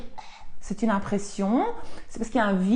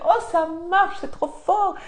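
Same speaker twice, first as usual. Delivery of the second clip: laughing; 8 semitones higher, slower than usual. Retold or imitated. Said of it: "Elle a commencé à rire".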